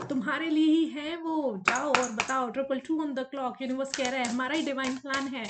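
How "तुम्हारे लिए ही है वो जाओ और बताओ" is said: insistent nudge, voiced for the universe; pushing universe. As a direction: push them to go and speak up. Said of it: "universe push कर रहा है".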